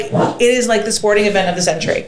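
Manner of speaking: high, laughing disbelief; amazed disbelief. Retold or imitated. Arriving at the rural arena, laughing in high amazed disbelief. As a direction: sound stunned by the crowd. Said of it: "And you're like".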